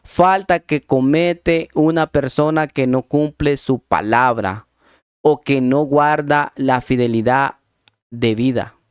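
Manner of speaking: slow, measured dictionary reading; deliberate, spaced-out definition reading. Real, not acted. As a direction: read it out slowly, word by word. Reads out the definition.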